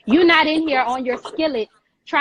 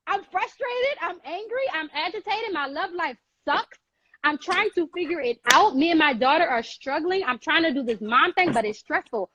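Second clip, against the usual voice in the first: 1 pleading prayer; 4 semitones higher than usual. Retold or imitated. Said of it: "go to my creator and say".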